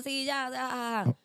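very slow, drawn-out dismissive yes; slow, bored placating; dismissive brush-off. Retold or imitated. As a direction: humor her lazily. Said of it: "como que".

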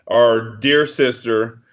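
hammed-up letter dictation, each line ending in a dull period; slow mock dictation with a flat period after each line; mock letter reading. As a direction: read a petty letter aloud, slowly, deadpan. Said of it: "It was basically like".

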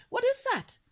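puzzled. Acted. Father swan sees the slate, high and puzzled. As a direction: wonder what that thing is.

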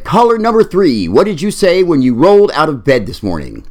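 chirpy DJ on air; buoyant DJ voice. Acted. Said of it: "a buoyant disc jockey said".

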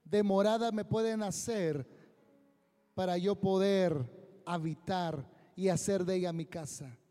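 slow, solemn divine questioning; God asking humanity with gravity. Acted. Voz de Dios preguntando. (voz solemne de Dios)

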